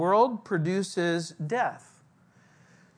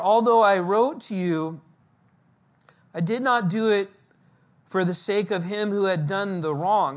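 louder, proclaiming scripture reading; 4 dB louder than usual. Acted. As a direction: read the verse out to the congregation. Reading scripture aloud in sermon.

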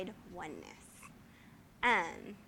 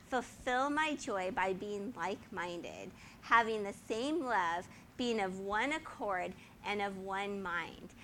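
slow, lightly formal reading of scripture; a touch of solemn scripture reading. Acted. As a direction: read the verse slowly and deliberately. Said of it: "and he says".

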